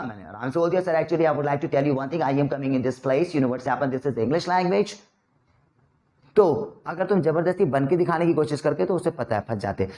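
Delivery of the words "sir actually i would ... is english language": slow, easy Indian English; Indian English accent. Shown as a demonstration. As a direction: speak English just like Indians do, slowly. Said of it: "बोल के दिखा". (भारतीय लहजे में धीमी अंग्रेज़ी)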